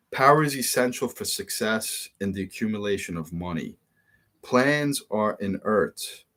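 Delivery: reading aloud. Acted. Reads the book passage aloud.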